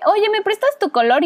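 imitating kids. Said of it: "que yo era así como de".

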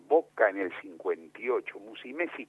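reciting team lineup. Retold or imitated. A boy recites the lineup to please his father, eager. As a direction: rattle off the lineup like a proud boy. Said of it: "Yo le recitaba esto a mi viejo".

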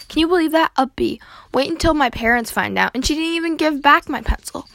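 worked-up complaint; indignant. Acted. Upset over a B.

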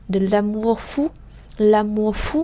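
"l'amour fou" without the final R; R dropped. Shown as a demonstration. Teacher repeating the fast form for learners. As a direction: drop the R in "l'amour". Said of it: "chúng ta bỏ luôn âm R đó".

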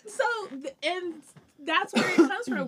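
high, loud laughing voice; can't stop laughing. Real, not acted. Still laughing.

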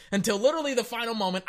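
laughing. Real, not acted. Laughs while restarting the line.

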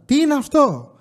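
the third time, losing patience; pushing the question harder at the wife. Retold or imitated. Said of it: "Αλήθεια τώρα".

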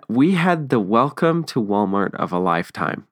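mock-grand sarcasm with lifted, swooping pitch; sarcastic. Real, not acted. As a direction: lay on the irony lightly. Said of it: "I'm saying this sarcastically".

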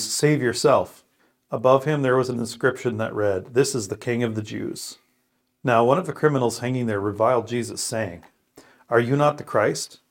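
measured, clearly phrased Bible reading; scripture reading. Real, not acted. Man reads Luke's crucifixion passage aloud, deliberate and solemn. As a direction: read it out as for a congregation, stressing key words.

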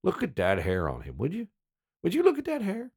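mocking Southern good-old-boy accent; loud, incredulous Southern local; Southern guys. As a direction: heckle in an exaggerated Southern accent, voice climbing. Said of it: "the guys were hard on me".

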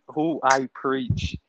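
slow and drawn out, falling; slow preacher imitation. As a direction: quote him slowly, falling. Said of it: "This man said".

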